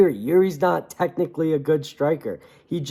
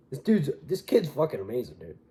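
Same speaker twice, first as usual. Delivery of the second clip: a hint of Dana White, lower and softer; lightly voiced hyped promoter; rough Dana White bit, lower; Dana White impression; 3 semitones lower, 7 dB quieter than usual. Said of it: "That's a terrible Dana White".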